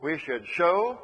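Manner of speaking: "show" stretched slowly; slow down and lean on "show"; deliberate, drawn-out weight on "show"; stress on show. Shown as a demonstration. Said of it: "emphasize the word show".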